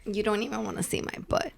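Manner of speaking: quiet, quick and giggly; laughing. Real, not acted. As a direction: laugh it out under your breath. Teasing joke, laugh on line.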